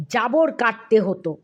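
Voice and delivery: ordinary delivery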